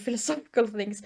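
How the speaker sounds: ordinary talk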